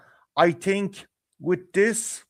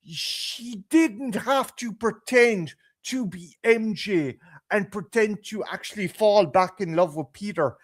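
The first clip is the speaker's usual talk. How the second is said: ordinary delivery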